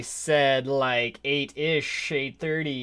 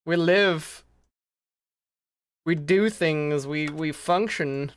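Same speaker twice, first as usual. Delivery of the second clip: higher, louder grand declaration; hammy announcer; 5 semitones higher, 4 dB louder than usual. Acted. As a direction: proclaim it like a showman.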